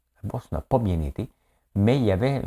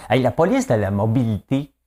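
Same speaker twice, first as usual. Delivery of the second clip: loud, higher, chopped syllable by syllable; pausing between syllables; 4 semitones higher, 6 dB louder than usual. Real, not acted. Host launching the mobility police topic, syllable by syllable. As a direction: call it out with each syllable set apart. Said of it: "une pause entre chaque, euh, syllabe".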